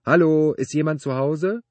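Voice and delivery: high, loud sustained call. A narrator's reading. Man standing among car parts, calling out loudly. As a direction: holler it into the workshop, pitch well up. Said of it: "rief er".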